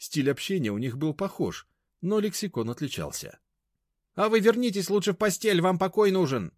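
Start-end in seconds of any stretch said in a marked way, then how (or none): 4.2-6.5 high, loud, condescending; high-pitched patronising command; snide order. A narrator's reading. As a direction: send the old woman to bed. Mashka ordering grandma to bed.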